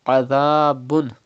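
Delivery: adhabun with ain from mid throat and dhal without whistle. Shown as a demonstration. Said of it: "Pronounce ain from the middle part of your throat".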